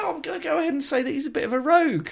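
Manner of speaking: pitched well up, fast and loud, a hammed-up reveal; playful game-show reveal of the day's word; mock grand announcement. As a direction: build up to the punchline like a game show host.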